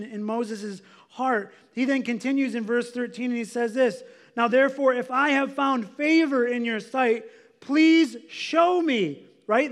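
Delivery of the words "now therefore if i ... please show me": earnest, raised-voice plea, slowing hard at the end; pleading with God. Acted. Preacher as Moses praying for God's favor, pleading. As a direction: plead it louder and higher, drawing out the last words. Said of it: "he begins to plead with God".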